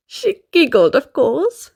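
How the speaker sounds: light giggles framing the line; giggling. Acted. Narrator giggles while telling the child. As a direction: giggle around the words.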